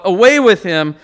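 a loud mock crowd shout; crowd outcry. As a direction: call it out like the crowd at the trial. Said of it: "they're crying out".

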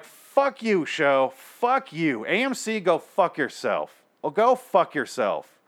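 slow, drawn-out swearing with high-pitched jumps; angry cursing. Real, not acted. Fed-up fan cursing out the network, angry. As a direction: tell them off, stretching each insult.

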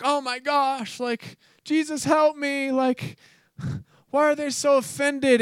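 high-pitched, hammed-up pleading; mock whiny complaint. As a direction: whine to God like an exasperated believer. Mimics believers complaining to God.

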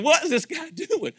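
laughing, high mock bewilderment; a young boy baffled and giggling; amused disbelief. Boy watching a preacher hop around, laughing in disbelief. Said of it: "And I went".

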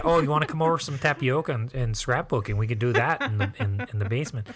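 chatty Wisconsin host, pitch sinking; lightly imitated Wisconsin speech; Wisconsin accent. Shown as a demonstration. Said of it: "what do they say".

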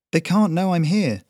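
panic, cowering in the corner; frightened boy. A narrator's reading. Terrified boy hiding.

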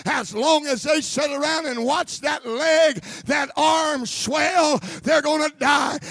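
loud, high, commanding; booming divine command; voice of God. Retold or imitated. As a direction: thunder it out as God to Moses. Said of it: "He could have said it like this".

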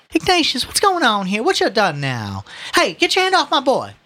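high, loud alarm, dipping then flaring; scolding mother. Acted. Mother finding her son seized, scolding and protective. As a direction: scold your son, then turn on the officer.

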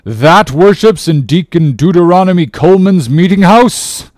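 loud, high outraged question; crying out in astonishment; incredulous cry. A narrator's reading. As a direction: exclaim in scandalized disbelief. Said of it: "cried Bildad".

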